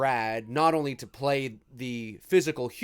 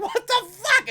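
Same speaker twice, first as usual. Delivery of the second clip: mock shocked cop; 8 dB louder than usual. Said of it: "you think he would have been like".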